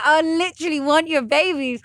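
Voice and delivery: high, loud smitten gush; retold gushing. Woman retells telling him she wants his babies, gushing. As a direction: blurt it out, besotted.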